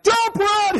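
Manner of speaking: hammed-up high pilot voice; mock pilot. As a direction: squeak it out like a panicking pilot. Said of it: "it's kinda like".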